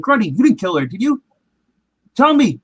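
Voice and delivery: beg, then demand an answer; freaking out. Retold or imitated. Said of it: "he starts freaking out".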